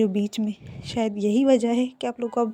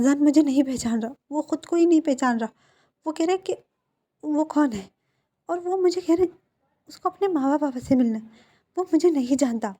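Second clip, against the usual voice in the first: higher and louder, frantic and breathless; panicked; 4 semitones higher, 4 dB louder than usual. Acted. Ebo frantically telling the doctor, panicked and loud.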